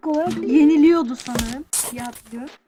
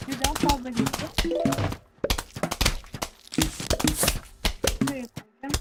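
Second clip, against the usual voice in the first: fuzz distortion; 5 dB quieter than usual. Real, not acted. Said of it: "sesim bozuk geliyor olabilir".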